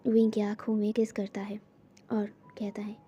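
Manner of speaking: whispering so family won't hear; whispered narration. A narrator's reading.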